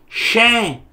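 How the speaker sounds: "Shem" said as "shen", lips apart; open-mouth final N. Shown as a demonstration. Teacher repeating the word for tooth, open ending. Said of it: "que é dente".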